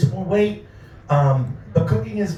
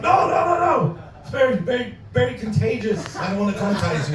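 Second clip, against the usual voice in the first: panicky excuse; 4 semitones higher than usual. Retold or imitated. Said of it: "acted like the coma was coming back".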